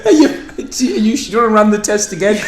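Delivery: slow, laughing Midlands doctor voice; Midlands accent. Retold or imitated. A doctor and patient skit, laughing Midlands accent. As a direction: play a Midlands doctor with a dry drawl. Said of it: "That's pretty good Midlands".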